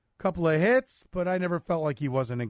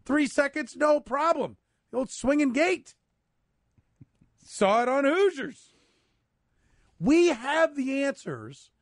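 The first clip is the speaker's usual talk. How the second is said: sarcastic; 9 semitones higher than usual. Acted. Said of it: "hashtag sarcasm there".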